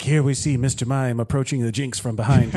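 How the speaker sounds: David Attenborough narration. Retold or imitated. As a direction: narrate like a wildlife film. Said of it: "David Attenborough narrating nature footage".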